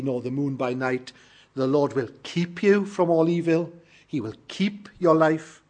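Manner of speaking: measured, solemn reading of a psalm; scripture reading. Shown as a demonstration. Preacher reads the psalm aloud to the church, solemn and measured. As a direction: read the psalm aloud to the congregation. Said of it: "I'll read it and you can follow".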